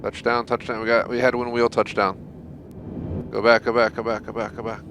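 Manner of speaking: rapid frantic calls, rising pitch; frantic mock sports commentary. Real, not acted. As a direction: call it like a panicked commentator. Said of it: "frantic landing calls".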